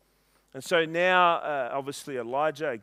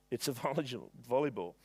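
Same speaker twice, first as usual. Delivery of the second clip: laughing; 3 semitones lower, 7 dB quieter, faster than usual. Real, not acted.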